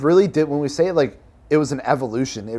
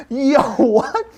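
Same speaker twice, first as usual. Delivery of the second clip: higher, louder mock shock; retold surprise; 12 semitones higher, 5 dB louder than usual. Cofounder imitates partner's shocked reaction to name change. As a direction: play his jaw-drop at the idea. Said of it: "He's like".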